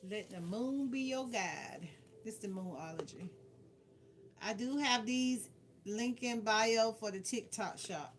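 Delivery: normal talking voice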